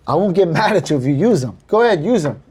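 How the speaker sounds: lightly lilting go-ahead; easygoing permission. Shown as a demonstration. Contractor tells clients to use a rival, easygoing. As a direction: wave them on, pitch lifting at the end. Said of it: "this is how I say it".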